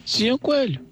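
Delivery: high, calling out in alarm; worried shout. A narrator's reading. Partridge calls out to the rabbit in the fire, worried shouting. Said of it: "começou a gritar".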